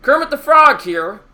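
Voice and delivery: Kermit the Frog. Pretend. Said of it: "I'm trying to do it".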